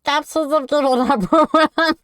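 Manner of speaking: squeaky helium voice, like Stitch. Acted. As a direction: chipmunk voice after inhaling helium. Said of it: "this helium voice for ten minutes".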